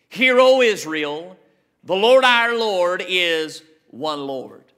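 slow, proclaimed scripture; scripture recitation. Acted. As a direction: proclaim the verse slowly, phrase by phrase.

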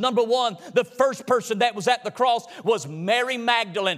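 chanted, musical preaching at full force. Acted. Preacher telling the congregation about Magdalene, sung and rhythmic. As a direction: whoop the story of Mary like a revival sermon. Whooping sermon over organ music.

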